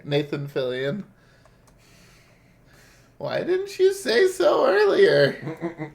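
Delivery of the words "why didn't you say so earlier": high indignant shout. Pretend. Voicing game character, shouting.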